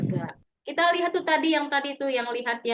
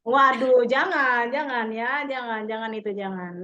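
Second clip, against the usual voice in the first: larangan keras; 4 dB louder than usual. Real, not acted. Melarang dengan tegas.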